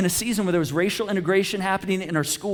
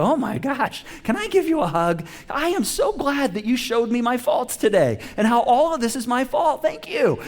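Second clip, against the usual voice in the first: sarcastic gratitude; 5 semitones higher than usual. Pretend. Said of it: "that person didn't come up to you and go".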